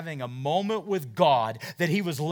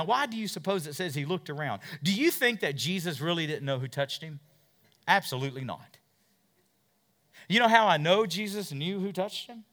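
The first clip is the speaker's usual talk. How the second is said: ordinary talk, nothing marked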